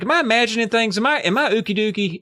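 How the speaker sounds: high, bewildered mock panic; acted freaking out. Eddie doubting what he sees, acted freak-out. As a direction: question your own sanity in a high voice. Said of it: "Eddie freaks out at him".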